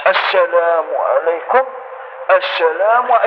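slow salam while leaning the whole body; wrong salam demo. Shown as a demonstration. Teacher imitating worshippers who lean, slow mock salam. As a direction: lean and drawl out the greeting. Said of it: "بعض الناس يميل هكذا".

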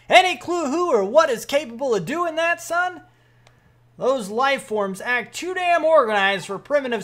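hammed-up military officer; brief a young soldier with emphatic authority; sergeant briefing voice. Sergeant reporting on the drone to a private, commanding.

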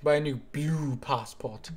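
lightly imitated British politician, drawn out; Boris Johnson. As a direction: quote a British statesman slowly, stretching the key word. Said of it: "that's my favorite Boris quote".

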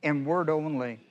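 slow, measured reading of the verse; slow deliberate Bible reading; solemn scripture reading. Acted. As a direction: read it out like holy text, unhurried. Reads scripture verse aloud.

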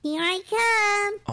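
slow, drawn-out call; stretched hide-and-seek announcement; seeker's call. Real, not acted. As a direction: call out to someone hiding. Seeker calls to hidden brother.

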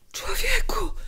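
high, strained cry; exasperated, breathy high outcry. A narrator's reading. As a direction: cry out in protest. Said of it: "krzyknęła".

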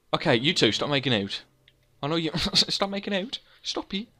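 loud, mock-stern telling-off of animals; mock scolding. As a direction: shoo two cows apart, half laughing. Scolding cows making out.

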